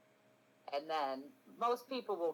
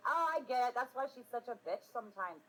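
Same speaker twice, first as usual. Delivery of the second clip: higher-pitched mock lightbulb moment; imagined people's realization; 9 semitones higher than usual. Streamer voices people finally understanding her, mock realization. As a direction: put on viewers suddenly getting it. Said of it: "And people are like".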